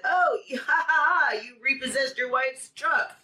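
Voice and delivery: high, loud imitated ha-ha-ha; imitating someone crowing with laughter; mock gloating laugh. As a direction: laugh mockingly, then draw out the taunt. Mimics man gloating over truck.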